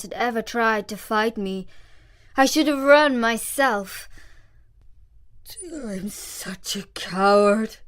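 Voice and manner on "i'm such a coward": slow, crying confession; mild sob, slowly; tearful admission. A narrator's reading. Lion admits cowardice.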